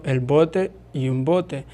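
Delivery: "el bote y un bote", slowly, as a contrast of sounds; slow example words. Shown as a demonstration. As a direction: lay out "el bote" against "un bote" slowly. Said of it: "Por ejemplo".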